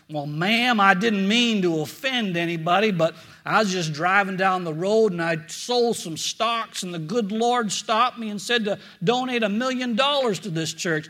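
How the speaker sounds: lightly voiced Texan cowboy asking for the pastor; Texan drawl. Preacher doing a tall Texan at the church office, light Texan drawl. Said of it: "he had this Texan drawl".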